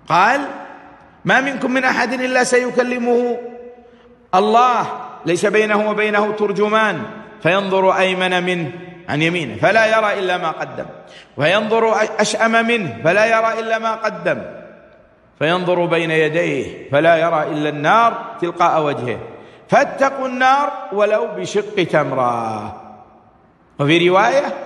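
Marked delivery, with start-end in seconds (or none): 1.2-8.7 measured recital with drawn-out word endings; hadith recitation. Acted. Preacher quotes the Prophet to listeners, hadith recitation. 9.6-22.8 measured recital with drawn-out word endings; hadith recitation. Acted. Preacher quotes the Prophet to listeners, hadith recitation.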